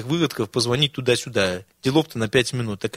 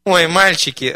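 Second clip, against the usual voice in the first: a louder, joyful sighing exclaim; 4 semitones higher, 5 dB louder, slower than usual. Acted. Granny greets the old students, a joyful sigh. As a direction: sigh out your delight at the boys. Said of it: "радостно вздохнула".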